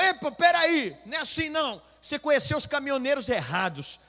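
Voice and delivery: high, loud indignant objection; imitated angry protest. Trucker objecting to the pastor's insult, high angry protest. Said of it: "O cara foi ficando bravo".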